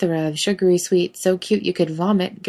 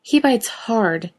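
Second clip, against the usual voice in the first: slow warning; 4 semitones higher, slower than usual. Acted. Girl repeats warning.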